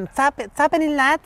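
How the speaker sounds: a hint of a Liverpool lad's greeting in Scouse; Scouse accent. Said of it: "ellos dicen".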